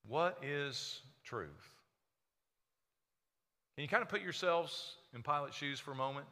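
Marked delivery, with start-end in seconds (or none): 0.0-1.7 "What is truth?" drawn out very slowly and softly; hushed rhetorical question. Acted. Pilate asking Jesus, slow and hushed. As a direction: let "What" fall and linger, quiet and slow. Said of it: "Pilate said to him".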